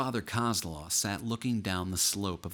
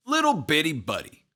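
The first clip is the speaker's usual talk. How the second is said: loud, raised-pitch pet name; bellowing big pal; 8 semitones higher, 6 dB louder than usual. A narrator's reading. Dad's nickname for his son, bellowing big pal voice. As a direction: holler it like a hearty dad. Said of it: "in his bellowing big pal voice".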